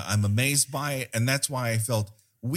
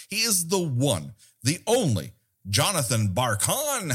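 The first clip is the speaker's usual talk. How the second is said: announcer intro; 3 semitones higher than usual. Acted. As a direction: build up the name. Host introducing guest.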